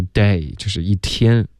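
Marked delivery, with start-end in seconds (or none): 0.0-0.5 DAY left open, no closing stop; missing final t. Shown as a demonstration. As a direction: demonstrate "day" as date without its t. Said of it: "不然你发的就是day".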